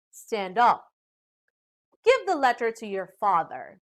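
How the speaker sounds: "up" and "father" drop in pitch; falling command. Shown as a demonstration. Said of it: "when giving commands like".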